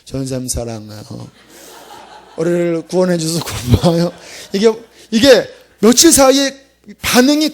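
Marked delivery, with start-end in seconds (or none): 0.0-4.1 softened students. Retold or imitated. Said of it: "눈이 착 풀려서".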